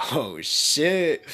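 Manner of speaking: very high, loud amazed yell; shocked shout. Acted. Deadpool shocked at his own strength, high loud yell. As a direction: blown away by your own power.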